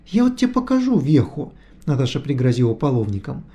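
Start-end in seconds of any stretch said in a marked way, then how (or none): 0.1-1.5 threatening. A narrator's reading. Natasha threatening with the ladle.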